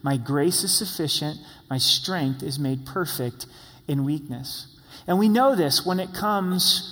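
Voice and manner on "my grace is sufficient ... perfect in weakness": gentle loving voice. Acted. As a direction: refuse kindly, like a loving father. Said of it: "very politely, very lovingly says".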